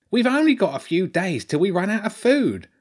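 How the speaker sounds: high-pitched fretful rat lord; a rat's voice, worried about supplies; Lord Ratzenberg. Acted. Rat lord warns the children food is running out, fretful high voice.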